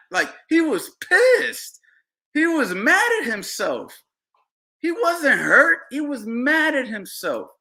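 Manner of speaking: rising into a heated rant over the stoppage; worked up. Real, not acted. Heated rant about the father.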